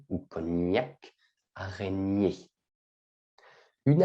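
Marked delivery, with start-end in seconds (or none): 1.5-2.5 "araignée" said softly, the "gn" like in champagne; careful pronunciation. Shown as a demonstration. Teacher modelling "araignée" like champagne, softly. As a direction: say "araignée" with the "gn" of cognac. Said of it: "Attention à la prononciation".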